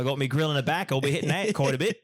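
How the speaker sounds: hammed-up Australian accent; laid-back mock Australian accent; bad Australian accent. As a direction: do a rough Australian impression. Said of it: "it's bad accent".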